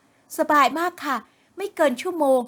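breezy and happy, no worry at all; cheerful daughter. A narrator's reading. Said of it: "ด้วยเสียงที่ร่าเริง".

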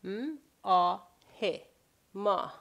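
m, a, he spelled out, then ma; letter by letter. Shown as a demonstration. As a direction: sound out each letter, then the word. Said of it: "look at the Farsi words".

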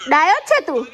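ordinary talk

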